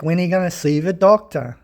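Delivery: lightly mocked nagging wife; imitated nagging. Husband imitating his wife about the doctor, mildly nagging. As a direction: nag a little, imitating a wife on your back. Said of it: "Wife's always on my back".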